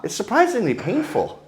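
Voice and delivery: breathy high laughing through words. Real, not acted. Telling the cane story, laughing high.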